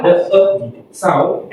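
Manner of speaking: drawn-out schwa in "the e sound"; slow down to isolate the "e" schwa. Shown as a demonstration. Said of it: "The schwa".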